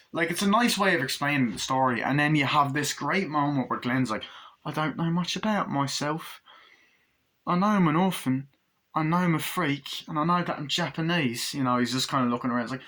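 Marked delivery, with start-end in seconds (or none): 4.7-11.5 earnest orphan doll. Retold or imitated. Voicing the innocent orphan doll.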